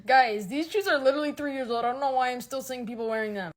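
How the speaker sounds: a hint of a snobby trend police; mock snob. Imitating a snob poster.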